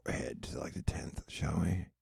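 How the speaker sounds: soft unvoiced conspiratorial whisper. Streamer whispering to viewers while skipping ahead. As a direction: lean in and whisper it to the chat.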